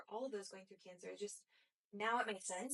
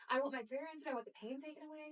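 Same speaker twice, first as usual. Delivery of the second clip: louder, higher, pleading demand; raised voice, wanting the pain gone; frustrated inner plea; 5 semitones higher, 4 dB louder than usual. Retold or imitated. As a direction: insist on it like a stubborn child. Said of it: "this part of me that says".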